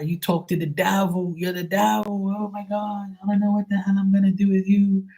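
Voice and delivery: high-pitched, scandalized dad impression; imitating dad. Father appalled that his child is a psychic, high mock outrage. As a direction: wail like a horrified father, stretching some words. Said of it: "That's exactly what he would do".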